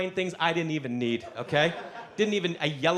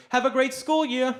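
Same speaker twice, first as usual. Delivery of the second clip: sweet lady voice; 8 semitones higher, 3 dB louder than usual. Retold or imitated. Woman handing over cash.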